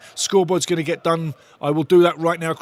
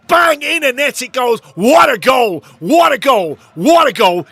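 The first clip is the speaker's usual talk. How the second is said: high, loud celebration shouts; fans' roar at the net; ecstatic goal yell; 7 semitones higher, 8 dB louder than usual. Real, not acted. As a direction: keep bellowing the goal.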